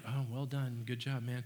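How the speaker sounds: a lukewarm, dropped-off well done; half-hearted thanks; flat, unimpressed. Pretend. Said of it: "When they wouldn't have been like".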